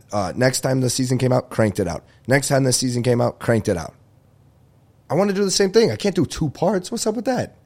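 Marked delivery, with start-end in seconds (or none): 5.1-7.6 much higher whiny complaint. Real, not acted. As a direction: whine it up high. Complaining about two parts.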